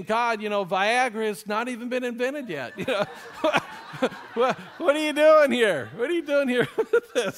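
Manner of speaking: laughing disbelief. Retold or imitated. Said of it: "I'm sure he's saying".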